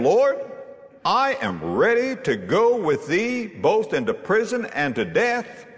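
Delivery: retold boast, high and emphatic. Preacher reading Peter's vow to the Lord, boastful. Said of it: "he was boasting".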